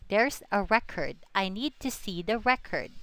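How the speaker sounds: "record" said as the noun REC-ord inside a sentence; stress on first syllable. Shown as a demonstration. Teacher gives example sentences, "record" stressed on its first syllable. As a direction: put the weight on REC in "record". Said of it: "That's a noun".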